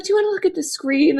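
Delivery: quoted high in a tear-choked voice; tearful. Real, not acted. Tearful retelling of ultrasound moment.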